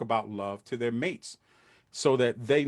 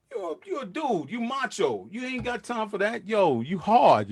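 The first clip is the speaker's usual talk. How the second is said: higher, hammed-up tough-guy voice; mock macho dude; 9 semitones higher than usual. Mocking macho men who won't talk love. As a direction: puff up like a hard dude.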